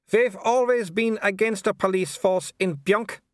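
high, polite baroness voice with a thin smile; a smiling aristocrat who means none of it; cool hostess smile. A narrator's reading. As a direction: welcome him coolly through a fixed smile.

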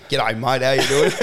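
slightly hammed-up Australian greeting; exaggerated Australian accent. Aussie greeting foreigners overseas, exaggerated Australian accent. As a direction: lay the Aussie accent on a bit thicker. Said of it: "turn up the dial of the Australian accent".

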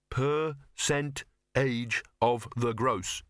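slow rote repetition, a bit unsure; slow careful repeat. Shown as a demonstration. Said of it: "Think you can remember it?".

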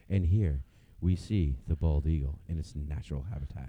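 low hushed wildlife narrator voice; nature documentary. Pretend. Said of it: "We could play by play it".

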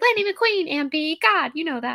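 high, loud mock exasperated yell; imitated kids yelling. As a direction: yell like nieces and nephews scolding you. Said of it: "would be yelling at me".

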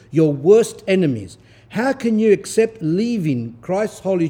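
rising, declaiming sermon read; fervent scripture-style reading; preaching reading. Acted. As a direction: proclaim the text to the flock. Reads Nicodemus text, preaching.

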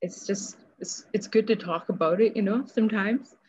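talking while crying, voice catching. Real, not acted. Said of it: "Sorry, I'm crying".

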